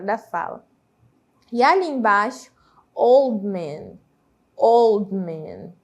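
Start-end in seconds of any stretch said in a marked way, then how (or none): 2.9-5.7 put-on "old man" said slowly with the D of "old" dropped; silent D. Shown as a demonstration. Teacher shows learners the D vanishing, "old man" with silent D. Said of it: "ele soa como se o D não existisse".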